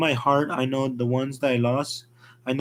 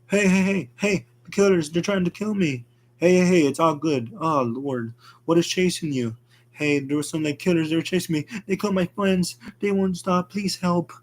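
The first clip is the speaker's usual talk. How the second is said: 1 panicked plea; 5 semitones higher than usual. Acted. Fleeing killers, begging driver.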